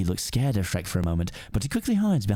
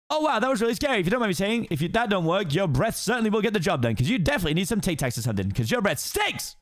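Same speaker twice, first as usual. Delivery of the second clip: high fast-talking donkey voice; excited Donkey; 8 semitones higher than usual. Acted. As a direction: gush admiringly at the ogre. Donkey mocks Shrek's roar.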